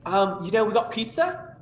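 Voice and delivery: lightly voiced chipper Midwestern host; a hint of a bright Midwestern host. GM voices food court host.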